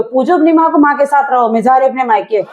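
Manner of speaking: yelling the threat as she leaves; angry shout. Acted. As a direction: shout it, storming off. Wife storms off to parents' home. (गुस्से में चिल्लाकर)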